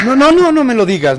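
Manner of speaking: high burst of repeated refusals; alarmed plea. Acted. Boss stops Pascual naming the magazine, alarmed. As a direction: cut him off in rising alarm. Dreads hearing which magazine it was.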